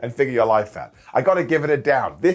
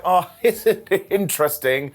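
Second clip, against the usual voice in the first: mocking L A Knight; 5 semitones higher, slower than usual. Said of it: "he was all like".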